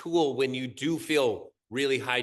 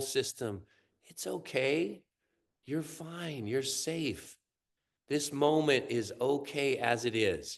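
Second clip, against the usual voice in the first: soothing reassurance; slower than usual. Acted. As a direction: reassure a frightened body gently. Soothing the body with calm words.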